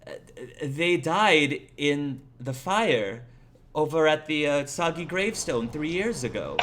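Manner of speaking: lightly voiced apologetic old lady; old woman. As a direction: break sad news haltingly, with a hint of an old woman. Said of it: "The old woman says".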